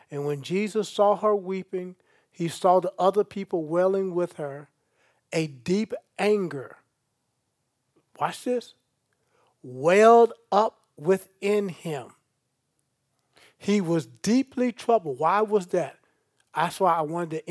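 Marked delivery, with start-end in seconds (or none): 5.3-12.2 slow emphasis. Shown as a demonstration. Preacher stressing the anger to the congregation, slow and weighty. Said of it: "Notice it".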